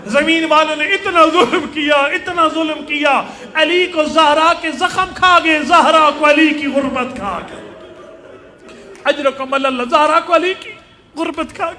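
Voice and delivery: emphatic, grieving pulpit delivery; impassioned lament preaching. Real, not acted. Preacher tells congregation of the household's suffering, impassioned lament. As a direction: press each phrase on the mourners.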